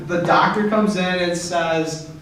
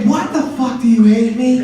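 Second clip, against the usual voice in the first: higher and louder, a hammed-up indignant protest; mock outrage; 4 semitones higher, 5 dB louder than usual. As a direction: play up the betrayal, half-joking. Retold outrage at mother's car gift.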